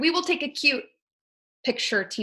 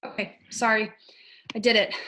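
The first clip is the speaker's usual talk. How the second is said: slightly winded after exercise; out of breath. Real, not acted. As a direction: catch your breath between words. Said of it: "literally got out of breath doing that".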